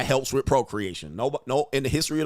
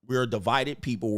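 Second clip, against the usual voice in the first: ordinary talk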